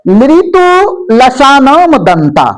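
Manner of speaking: very slow, syllable by syllable; slow sutra recitation. Shown as a demonstration. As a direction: spell out लृतु लसानम दंता slowly, each syllable apart. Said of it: "अब चौथा सूत्र आइए".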